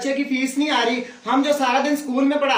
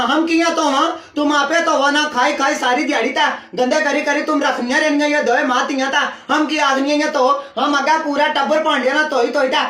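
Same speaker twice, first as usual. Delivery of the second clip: complaining maid. Acted. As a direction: scold them in a thick rural dialect. Angry servant scolding her employers.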